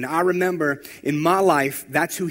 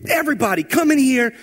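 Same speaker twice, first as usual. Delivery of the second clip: higher, louder imitated command to the group; retold yelling; 9 semitones higher, 3 dB louder than usual. Frustrated youth pastor ordering teens to sit down, raised voice. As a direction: call the teens in like a frustrated leader. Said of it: "he was yelling".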